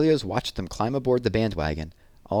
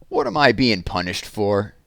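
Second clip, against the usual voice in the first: mock roar; 5 dB louder than usual. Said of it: "we heard him roar".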